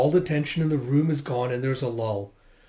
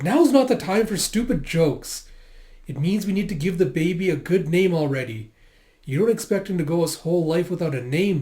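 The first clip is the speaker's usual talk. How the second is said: scolding wife; 3 semitones higher than usual. Acted. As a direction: scold him for the stupid joke. Wife scolds husband over baby's name.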